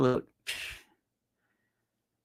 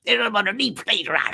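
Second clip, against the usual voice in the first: smug I-told-you; 5 semitones higher than usual. Retold or imitated. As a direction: gloat like a know-it-all pundit. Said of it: "everybody's pulling a Dershowitz".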